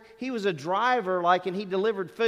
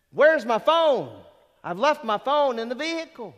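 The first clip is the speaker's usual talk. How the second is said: put-on callous girl; 6 semitones higher, 7 dB louder than usual. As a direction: throw the line out like she doesn't care. Girl's callous words after the killing.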